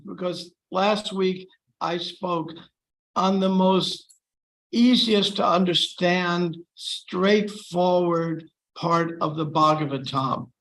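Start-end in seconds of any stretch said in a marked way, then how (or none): 3.2-10.5 slow, dry sarcastic emphasis. Real, not acted. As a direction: say it with mock praise. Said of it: "excuse my sarcasm".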